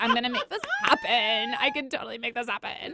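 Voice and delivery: put-on high, swooping Valley Girl voice. Retelling an inner voice pushing ahead: imitating a Valley Girl voice. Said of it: "listened to the Valley Girl voice".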